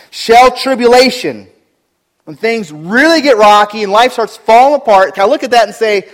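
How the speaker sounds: loud, rising sermon delivery; a pastor thundering the question at his church; preaching at full force. Acted. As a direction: preach it hard to the congregation.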